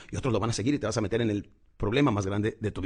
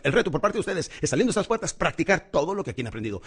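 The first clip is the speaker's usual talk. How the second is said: higher-pitched rousing address to an audience; slightly raised voice; 5 semitones higher than usual. Shown as a demonstration. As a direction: raise the voice and urge them to act. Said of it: "empiezo a trabajar la modulación de la voz un poquito más alta".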